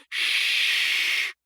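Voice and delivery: hissed shh; sharp shush. A narrator's reading. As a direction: cut him off with a shush. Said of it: "silenced him with a piercing glance".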